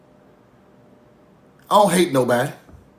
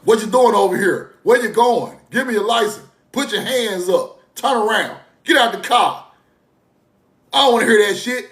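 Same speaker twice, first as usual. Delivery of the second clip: higher, barking police commands; mock cop orders; 5 semitones higher than usual. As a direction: play the bossy cop shouting orders. Mocking police officers' orders.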